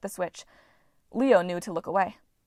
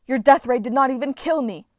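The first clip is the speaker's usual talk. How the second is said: indignant; 4 semitones higher, 7 dB louder than usual. Acted. Trapped goddess rages.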